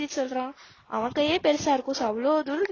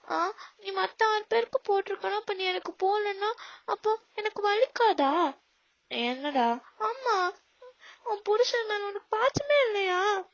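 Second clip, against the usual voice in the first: put-on higher, whiny and teary like a sulking kid; childish whining husband; 6 semitones higher, slower than usual. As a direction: plead like a hurt child. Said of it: "ஏன்டா குழந்தை மாதிரி". (குழந்தை போல சிணுங்கும் கணவன்)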